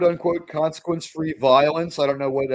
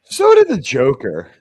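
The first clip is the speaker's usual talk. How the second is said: slow, louder dry retort; deadpan jab; 9 dB louder than usual. Real, not acted. Cohost needling the other's laugh with a slow dry jab. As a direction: drop it slow like a punchline.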